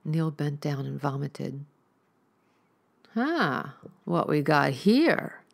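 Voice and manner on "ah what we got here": menacing stranger. Acted. Stranger accosts Neil from behind.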